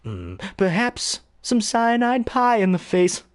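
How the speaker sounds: slow scheming Joker voice; sinister voice. Retold or imitated. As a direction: plot it slowly, sly and sinister. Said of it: "you kinda have this sinister voice".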